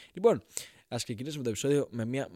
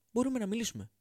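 much higher, astonished caveman voice; excited caveman; 11 semitones higher, faster than usual. Acted. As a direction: squeal with disbelief that you can talk. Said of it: "λένε". (πολύ ψηλή, ενθουσιασμένη φωνή του Κώστα)

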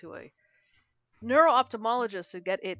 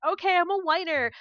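mock giving in; 8 semitones higher, 5 dB louder than usual. Retells giving in to accusers.

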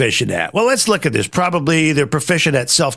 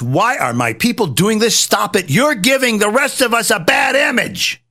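mock yell, higher and building to a shout at the end; imagined outraged yell; 5 semitones higher than usual. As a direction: cry out at your own people, rising to a shout. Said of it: "screaming at the top of our lungs".

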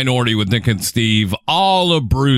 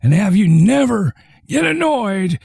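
RFK impression; 7 semitones higher than usual. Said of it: "sounded like an old prospector".

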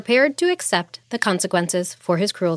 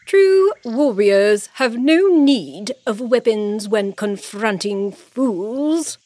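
slow, louder and cutting; sharp rebuke; 3 semitones higher, 4 dB louder, slower than usual. Acted. The queen scolding the Monkey King, sharp and slow. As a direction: put him in his place. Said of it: "sharp words".

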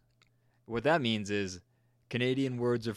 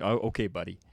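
sarcastic buddy; 3 semitones lower than usual. Shown as a demonstration. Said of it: "you can start some beef".

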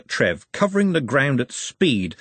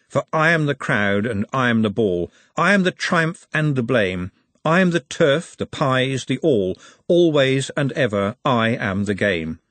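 poem recitation. Acted. The crowd's voice reaching Trev, solemn recited verse. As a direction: intone it like an ancient chant.

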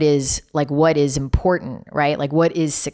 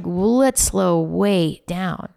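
calming; much slower than usual. Retold or imitated. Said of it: "And I was like".

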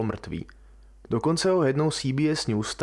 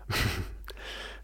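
soft chuckle; 4 semitones lower, 8 dB quieter than usual. Real, not acted. Amused after own remark.

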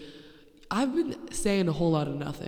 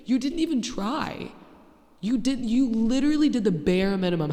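higher, indignant protest; exasperated scolding; 6 semitones higher, 4 dB louder than usual. Real, not acted. Podcaster berating guy's bare-minimum flirting, high-pitched exasperation.

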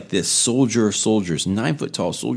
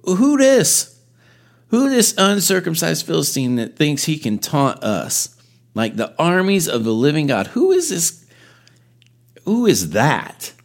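imagined indignant David; 8 semitones higher than usual. Retold or imitated. Preacher voicing David's high indignant outrage at Goliath. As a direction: voice young David's disbelief at the giant. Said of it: "I could just hear him saying".

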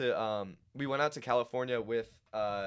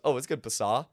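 imitating an offhand greeting in passing; casual quoted hello, barely any fuss; nonchalant. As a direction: toss off the greeting like it's nothing. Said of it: "like, the most nonchalant".

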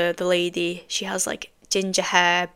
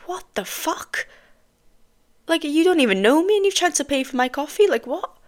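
gobsmacked; 9 semitones higher than usual. Retold or imitated. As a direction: stretch out the disbelief, pitched up. Stranger pays for her coffee.

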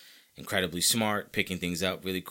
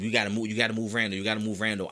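mocking critics; faster than usual. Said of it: "He's getting all of the hate".

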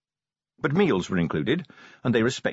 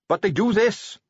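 put-on higher eager young Carrot voice; earnest young captain, pitched up and louder; 10 semitones higher, 3 dB louder than usual.

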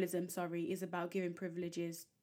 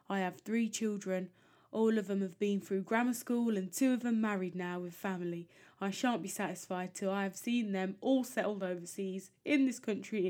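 attempted Midlands accent, slightly louder; 4 dB louder than usual. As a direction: put on a rough Midlands accent. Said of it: "I'll give a bit more with that accent".

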